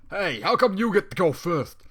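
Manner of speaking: a put-upon unicorn demanding to know why he's second; very annoyed. Acted. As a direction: whine it out, slow and indignant. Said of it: "very annoyed".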